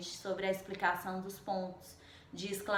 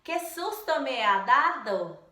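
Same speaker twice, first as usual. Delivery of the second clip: a touch louder, startled exclamation; exclamatory surprise; 5 dB louder than usual. Shown as a demonstration. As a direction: read it as a mild fright.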